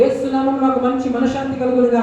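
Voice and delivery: steady, rhythmic litany of blessings; blessing declarations. Real, not acted. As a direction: pronounce each blessing in an even, repeated cadence.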